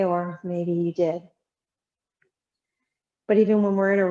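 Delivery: unhurried meditation voice with long pauses; guided settling meditation. Real, not acted. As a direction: gently guide them to let go, leaving space.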